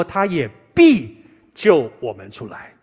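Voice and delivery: 必 leaned on, slow and weighty; emphatic reading. Shown as a demonstration. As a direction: press on 必, slowly. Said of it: "然后后面说".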